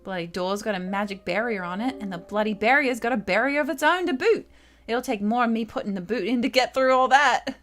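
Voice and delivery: lightly voiced thief girl, a touch of grumbling; mildly annoyed, cursing the bloody door in a put-on accent; grumpy Kid. Kid grumbling at the locked door, lightly voiced and annoyed.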